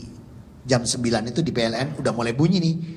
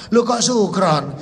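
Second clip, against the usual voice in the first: laughing; 7 semitones higher, 6 dB louder, slower than usual. Retold or imitated. Amused at the wrong word.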